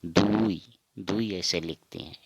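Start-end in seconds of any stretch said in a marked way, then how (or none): 0.1-0.6 दुई with an u gliding into i; Assamese pronunciation. Shown as a demonstration. Teacher giving learners the Assamese two, clear du-i. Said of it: "असमिया में हम कहेंगे".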